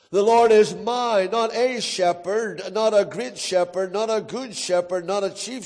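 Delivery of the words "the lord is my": "my" given weight at the end of the phrase; stress on MY. Shown as a demonstration. Preacher making the psalm personal, weighted "my". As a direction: build up to "my" and lean on it. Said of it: "we could major on every word here".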